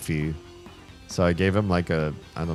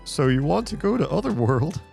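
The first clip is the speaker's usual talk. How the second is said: clown voice. Acted. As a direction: play it like a cheerful clown. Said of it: "a clown voice or something".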